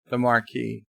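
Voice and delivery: "The Marquis" said mar-KEE, silent s; careful pronunciation. Shown as a demonstration. Streamer showing viewers his pronunciation, measured "Marquis". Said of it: "I'm sure I'm pronouncing it".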